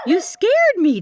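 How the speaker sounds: "scared" pushed high and loud, then falling; startled but playful on "scared"; mock fright. Dog startles her.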